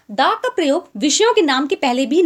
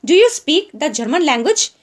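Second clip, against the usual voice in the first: slow example read; much slower than usual. Shown as a demonstration. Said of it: "चलिए example देख लेते हैं".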